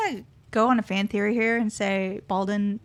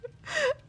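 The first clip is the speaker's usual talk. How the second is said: goblin laugh; 6 dB quieter than usual. Acted. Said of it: "My little goblin voice".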